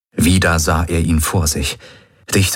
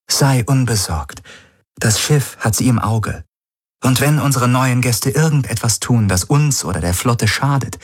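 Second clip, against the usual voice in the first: higher-pitched sister, assured and composed; a higher character voice, firm but hopeful; lightly voiced Ylana; 6 semitones higher than usual. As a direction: reassure in a lightly raised voice.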